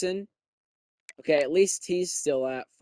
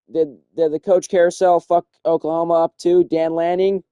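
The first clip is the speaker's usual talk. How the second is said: exasperated outburst; 3 semitones higher, 9 dB louder than usual. Real, not acted. Frustrated at coaching changes.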